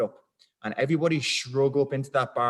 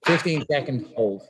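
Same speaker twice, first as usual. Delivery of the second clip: louder and slowed, projecting; loud slow coach call; 6 dB louder than usual. Real, not acted. Coach announcing the hold to the class, loud and slow. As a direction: call the hold time across the room slowly.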